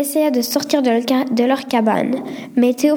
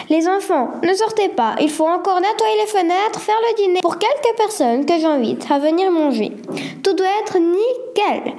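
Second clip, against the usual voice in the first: rasping matron; 6 semitones higher than usual. Acted. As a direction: bark orders at the children like a strict matron. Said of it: "s'exclama une voix rauque".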